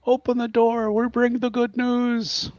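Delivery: muffled through door. Acted. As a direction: call through a closed door. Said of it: "a muffled voice from outside".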